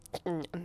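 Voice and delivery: brief, settling chuckle; tail-end chuckle. Acted. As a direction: let the laughter die down. Amused by vampire question.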